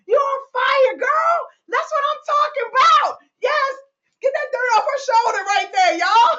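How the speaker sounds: high-pitched, triumphant cheering; excited hype. Real, not acted. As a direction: hype your colleague to the whole crowd. Cheering a colleague's success.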